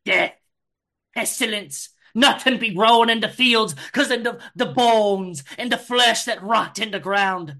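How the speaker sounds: preacher's condemnation, lightly voiced; fire and brimstone. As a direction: thunder like a backwoods preacher. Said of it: "you're using fire and brimstone".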